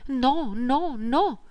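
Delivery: put-on a child begging in fear; terrified pleading. Little Vivien begging Pierre to spare the kittens, a terrified cry. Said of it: "lo sguardo colmo di terrore".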